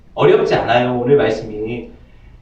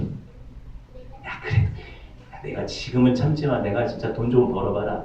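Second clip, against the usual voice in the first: hushed, breathy muttered grudge; inner grudge; 6 semitones lower, 7 dB quieter than usual. Acted. The heart secretly blaming another, hushed resentful muttering. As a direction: hiss it under your breath, resentful.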